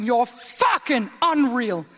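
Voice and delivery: put-on slow, loud drunken yell; drunken shout. Australian helmsman hails winner, slow loud shout. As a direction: holler it like a tipsy sailor. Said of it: "og så råbte han".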